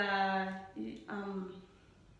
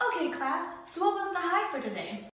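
higher, lightly voiced teacher; 5 semitones higher than usual. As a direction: play a chirpy teacher asking the class. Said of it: "guess who I'm imitating".

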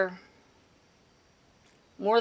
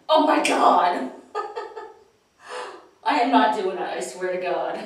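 freaked out; 2 semitones lower than usual. Real, not acted. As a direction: caught off guard, laughing. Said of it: "that was freaky".

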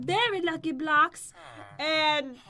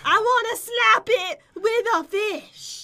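slow, drawn-out declaration; slowly, word by word, with gusto; emphatic repeat; 2 semitones higher, 4 dB louder than usual. Real, not acted. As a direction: spell it out for someone who missed it. Repeats after "You wanna what?.

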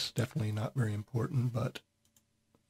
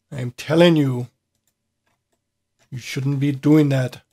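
firm, louder warning as the crewman; 5 dB louder than usual. Acted. Crewman warning someone off, louder and firm. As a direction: lean in harder on telling. Voicing character scolding someone.

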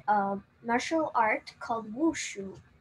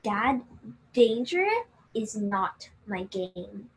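prim refusal; slower than usual. Retold or imitated. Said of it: "my sister said".

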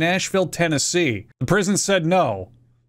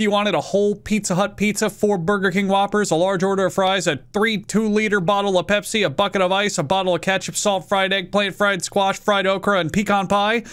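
incredulous re-listing. Shown as a demonstration. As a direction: list it again, mocking and disbelieving. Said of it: "So now you're gonna get picky?".

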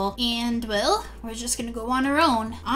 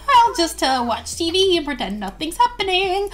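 feigned nonchalance; 4 semitones higher than usual. Acted. Merwin pretending not to notice, feigned nonchalance. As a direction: act like nothing is going on. Merwin avoiding the awkward scene.

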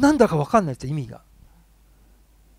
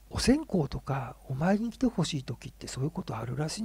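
whispered lore; 7 dB quieter than usual. Retold or imitated. Friend passing on grandma's lore.

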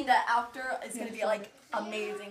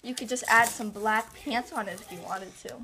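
talking around a retainer; slightly lisped retainer speech; wearing a retainer; 7 dB louder than usual. Real, not acted. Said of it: "if I'm talking funny, it's because I have my retainer in".

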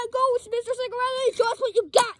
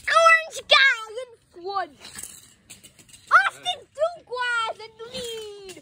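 slow, stretched play-by-play calls; race commentary; slower than usual. Pretend. Child announces toy cars' positions, drawn-out race commentary. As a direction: call the race, drawing out each name.

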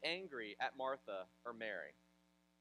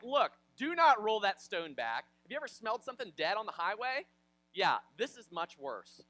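emphatic warning; 4 semitones higher, 8 dB louder than usual. Retold or imitated. Martha warns against rolling the stone back, emphatic warning. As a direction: warn him off with heavy emphasis.

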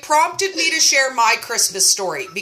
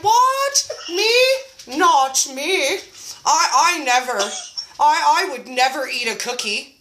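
mock innocent denial. Hiding the cookies from the group, mock innocence. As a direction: play the innocent, badly. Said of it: "I would have loved to have been like".

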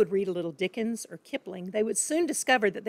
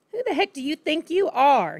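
higher, louder furious bark; angry shout; 7 semitones higher, 5 dB louder than usual. Acted. Father yelling at his daughter, furious shout. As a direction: blast her for her cheek. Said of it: "he shouted".

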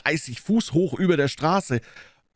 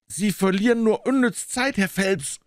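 urgent calling out; 7 semitones higher than usual. A narrator's reading. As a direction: call out a protest, pitched well up. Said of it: "rief der Türhüter". (eindringlich gerufen, mit hoher Stimme)

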